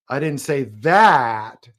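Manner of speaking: slow, landing on that; stress on that. Shown as a demonstration. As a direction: stretch and weight the word that. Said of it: "emphasize a different word".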